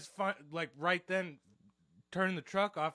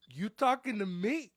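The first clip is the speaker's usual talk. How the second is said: slow, loud mobster challenge, pitched up; Sopranos tough guy; 6 semitones higher, 8 dB louder than usual. Retold or imitated. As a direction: play the goomba picking a fight. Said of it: "I, fresh off The Sopranos".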